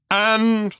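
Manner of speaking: thunderous. A narrator's reading. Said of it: "the thunderous voice continued".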